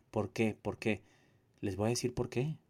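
ordinary talk, nothing marked

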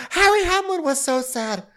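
high, melodramatic sorrow; mock lament. Podcaster mourning Harry Hamlin's tears, mock lament. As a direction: lament it, slowing down at the end.

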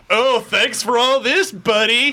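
high-pitched, drawn-out mock thanks; Agent Locke, sarcastic. Imitating Locke blaming Master Chief for the destruction, hammed-up sarcasm. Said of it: "like this sarcastic".

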